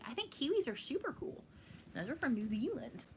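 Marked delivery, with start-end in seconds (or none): 1.9-3.0 attempted New Zealand accent, not quite landing; bad New Zealand accent. Kiwi fan trying the country's accent for viewers, poor New Zealand accent. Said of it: "I can't do a good New Zealand".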